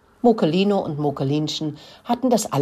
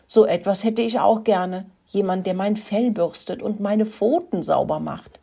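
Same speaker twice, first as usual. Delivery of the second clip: gushing; 4 semitones higher than usual. Acted. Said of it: "schwärmte er".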